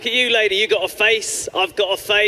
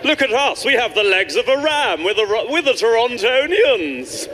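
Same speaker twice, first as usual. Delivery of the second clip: mythical creature voice; 3 semitones higher than usual. Pretend. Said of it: "sounds like a mythical creature".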